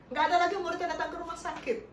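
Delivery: laughing. Real, not acted. Joking about the pandemic emptying visits.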